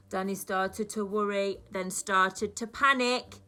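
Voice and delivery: lively, sing-song storybook reading; reading a story to children. A narrator's reading. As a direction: read it like story time for little ones. Teacher reads picture book aloud.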